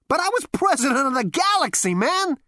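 a hint of a brash galactic president; Zaphod's voice. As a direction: play the cocky young Zaphod. Zaphod protests.

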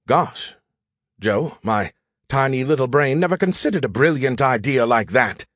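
mock-amazed, heavily sarcastic; dripping sarcasm. AI belittling Joe's brilliant idea, sarcastic. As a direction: let the sarcasm drip from every phrase. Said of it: "His voice dripped with sarcasm".

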